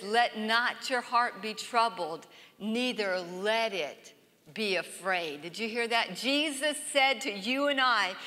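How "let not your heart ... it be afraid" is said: slow, softening to a hush at the end; tender, slow quote fading out; soft scripture reading. Shown as a demonstration. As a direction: read it gently, letting it fade. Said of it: "And then he says".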